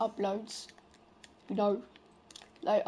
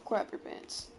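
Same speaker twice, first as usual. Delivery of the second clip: breathy whisper; 7 dB quieter, slower than usual. Acted. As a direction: say it as a secret. Hyping the lobby.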